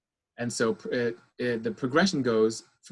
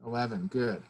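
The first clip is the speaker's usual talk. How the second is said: hushed, softer good; quiet praise after the exhale; 6 dB quieter than usual. Shown as a demonstration. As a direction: murmur it gently after the breath. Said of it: "We're gonna inhale again".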